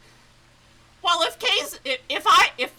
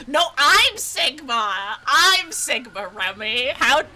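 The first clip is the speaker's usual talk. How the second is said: mock declaration; 5 dB louder, slower than usual. Real, not acted. Mocking shouted realization.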